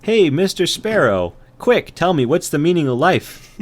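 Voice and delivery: high ant voice; urgent ant. Acted. Ant quizzing the sparrow, high urgent voice. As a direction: press for an answer urgently. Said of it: "And he says".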